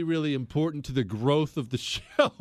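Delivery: breaking into a laugh near the end; amused, cracking up at own joke. Real, not acted. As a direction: laugh through the last words.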